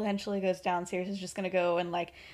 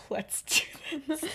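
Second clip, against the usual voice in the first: higher, drawn-out acted resolve; mock-resolute; 4 semitones higher, 5 dB quieter, slower than usual. Boys psyching each other up before the prank, mock-resolute. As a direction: say it slowly, as a hammed-up rally.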